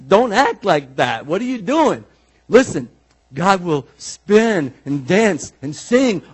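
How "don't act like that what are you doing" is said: loud, slowed, mock-mortified hush-up; a kid embarrassed by a dancing parent; louder, exasperated "what are you doing" at an over-the-top dad; embarrassed scolding. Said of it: "you and I would be like".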